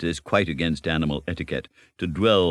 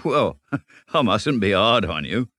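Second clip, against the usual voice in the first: patient forbearance; 4 semitones higher, 3 dB louder than usual. Acted. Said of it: "said the Rat with forbearance".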